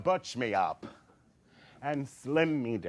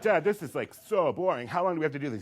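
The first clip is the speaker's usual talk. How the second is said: put-on higher, raised bored-kid whine; whiny complaint; 5 semitones higher, 4 dB louder, faster than usual. Son complaining to father during catch practice, bored whine. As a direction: groan it like an impatient child.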